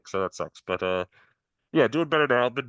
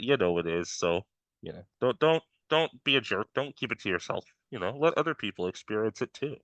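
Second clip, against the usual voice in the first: muffled through mask; 4 semitones higher than usual. Real, not acted. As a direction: voice dulled by a mask. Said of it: "getting a little hard to hear you".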